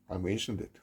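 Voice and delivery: ordinary delivery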